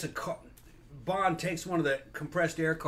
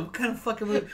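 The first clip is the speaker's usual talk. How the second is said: laughing disbelief; 6 semitones higher than usual. Retold or imitated. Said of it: "I was going".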